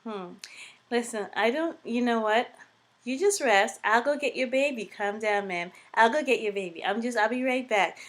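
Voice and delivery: calm her down while escaping; a lightly voiced nurse soothing; placating nurse. Nurse placating upset mother.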